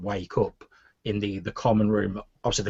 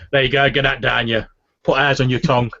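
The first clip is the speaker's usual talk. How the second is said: slightly louder hearty serving voice; orc barkeep; 3 semitones higher, 5 dB louder than usual. Acted. Orc barkeep putting porridge before a customer, lightly voiced. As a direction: serve it up as the barkeep. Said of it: "and he goes".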